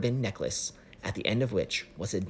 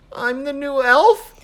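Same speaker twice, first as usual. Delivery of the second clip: slow, high confused question; puzzled question; 12 dB louder, slower than usual. Acted. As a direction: ask it in confusion. Chris puzzles over the phrase.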